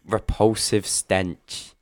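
drawn out mock grave announcement; slow dramatic reading. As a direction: read it like a melodramatic narrator.

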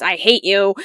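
put-on loud, angry kid quote; a mock tantrum shout; imitating an angry child; child's outburst. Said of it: "He says really big words".

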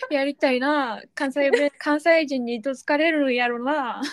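lightly put-on Kansai accent; a touch of playful Kansai; fake Kansai dialect. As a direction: echo it in a mock Kansai lilt. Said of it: "エセ関西弁で読めばよかったかな".

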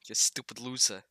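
whispered playground insult; mock taunt whisper. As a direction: hiss the insult under your breath. Mock taunting in dance bit.

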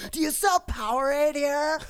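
spaced-out raver. Retold or imitated. Bartender mimicking a raver at the bar, high dopey voice. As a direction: play the clueless raver asking for a drink.

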